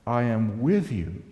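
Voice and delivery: rising to loud proclamation, slowing at the end; scripture reading. Shown as a demonstration. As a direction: read it like a prophet's promise. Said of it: "And I read these words here".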